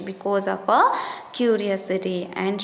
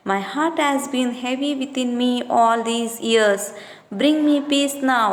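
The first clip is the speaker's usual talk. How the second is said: mother's plea; 2 semitones higher than usual. Acted. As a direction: plead gently with the son to come home. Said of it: "like that she is begging".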